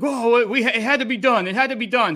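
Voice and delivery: mock protesting fans. Host mimics Auburn fans defending the firing, mock insistent. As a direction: plead it urgently, as imitated fans. Voicing Auburn fans' excuses.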